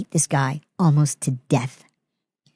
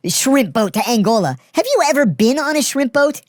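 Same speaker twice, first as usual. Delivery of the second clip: slow, then climbing much higher in ridicule; mocking disbelief; 8 semitones higher than usual. Ridiculing the inmate's shrimp boat story, slow then high. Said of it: "I go".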